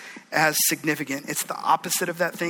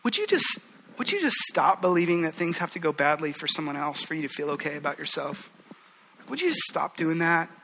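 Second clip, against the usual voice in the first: lovingly. Retold or imitated. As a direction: plead gently like a caring friend. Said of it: "he just lovingly says".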